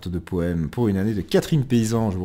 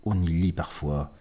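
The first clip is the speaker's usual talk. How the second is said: unhurried recital, pausing after each image; poem reading; 4 semitones lower than usual. Acted. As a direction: let the lines sink gently at their ends. Reads a poem aloud. (lecture de poème lente et posée)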